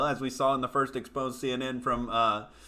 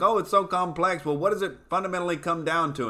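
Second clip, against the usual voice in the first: higher mocking voice; mock student; 5 semitones higher than usual. Questioning the students, mildly mocking voice. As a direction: lightly mimic the smug student. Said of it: "And it's like".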